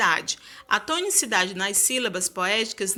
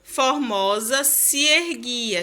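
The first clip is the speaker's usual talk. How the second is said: slow scanning of a verse; poem recital; much slower than usual. Shown as a demonstration. Teacher scanning a verse for the class. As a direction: read the verse slowly, syllables merged. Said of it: "A gente tem cinco sílabas".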